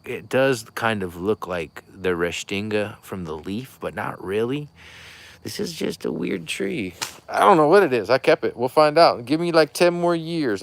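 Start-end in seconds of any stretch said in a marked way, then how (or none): 5.4-10.6 high, loud goofy put-on voice; cartoonish high voice, hammed up; silly high voice. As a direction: squeal it out in a playful character voice. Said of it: "I get into that voice".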